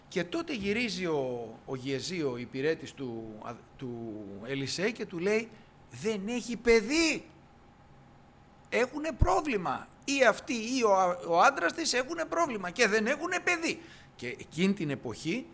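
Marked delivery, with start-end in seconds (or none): 5.9-13.8 a servant breaking sad news gently; voicing Gehazi. Gehazi reports she is childless.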